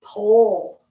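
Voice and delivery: Pole said as one syllable, rhyming with hole; one clean syllable, Pole like hole; y'all's pronunciation. Shown as a demonstration. Teacher to class, switching to how they say Pole, one syllable like hole. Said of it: "how y'all say it".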